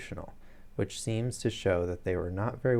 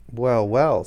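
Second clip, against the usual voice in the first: flustered, louder stammering start; nervous; 3 semitones higher, 10 dB louder than usual. A narrator's reading. Resident patient dodging Holmes's question, nervous fluster. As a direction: blurt it out nervously. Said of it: "in a nervous fashion".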